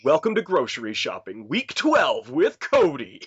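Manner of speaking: hammed-up radio DJ show opener. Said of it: "a radio D J in everyday life".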